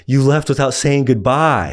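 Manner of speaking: mock-wounded buddy; playful accusation. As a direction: rib him for leaving. Reed teasing, laughing.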